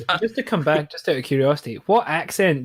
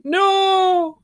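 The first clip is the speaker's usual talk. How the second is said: sudden high shout of protest; horrified shout; 5 dB louder than usual. Retold or imitated. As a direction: yell it out in shock. Horrified reaction to door slamming.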